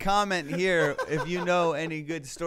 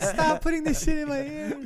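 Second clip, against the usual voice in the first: squeaky flower voice; 12 semitones higher, 6 dB louder than usual. Pretend. Flowers complaining, high far voice.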